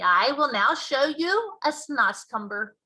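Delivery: BFG giant voice. Acted. Giant explaining to Sophie, loud and slow. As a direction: boom out the giant's mangled grammar.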